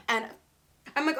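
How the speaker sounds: usual speaking voice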